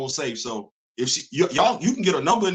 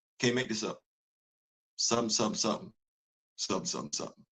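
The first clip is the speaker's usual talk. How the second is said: very quiet, breathy whisper spoken close in; 7 semitones lower, 9 dB quieter than usual. Retelling whispering into a young lady's ear by a booming speaker: imitating a whisper. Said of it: "and I whisper in her ear".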